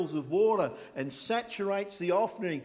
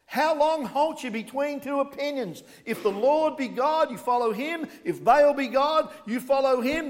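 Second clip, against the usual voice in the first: higher and louder ultimatum; loud preaching Elijah; 7 semitones higher, 6 dB louder than usual. Retold or imitated. Elijah challenging the people to choose, loud preaching. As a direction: hurl the challenge at the crowd. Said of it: "Elijah drew the crowd together and said".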